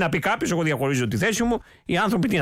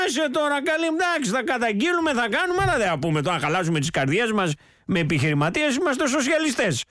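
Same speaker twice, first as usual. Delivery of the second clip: higher sly scheming voice; mock inner voice; 4 semitones higher than usual. Host parodies the leader's hidden calculation, pitched up. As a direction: pitch it up like a cunning politician. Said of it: "Σου λέει".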